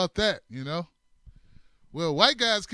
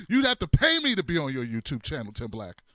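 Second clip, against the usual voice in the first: laughing tease; 5 semitones lower than usual. Real, not acted. Co-host mocks him laughing.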